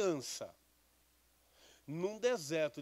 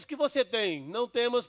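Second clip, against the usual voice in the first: loud, high call from the angel; angel crying out; 6 semitones higher, 9 dB louder than usual. A narrator's reading. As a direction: proclaim it loudly, like a heavenly messenger. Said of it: "E o anjo brada pra ela e diz".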